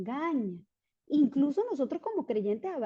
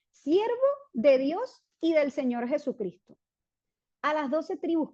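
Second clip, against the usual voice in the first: proclaimed; 3 semitones higher, 4 dB louder than usual. Acted. Reading scripture, then rereading it.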